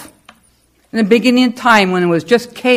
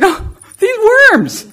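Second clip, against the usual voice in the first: high, laughing answer; 9 semitones higher than usual. Retold or imitated. Telling Roy about rescuing worms, high and laughing. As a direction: giggle it out.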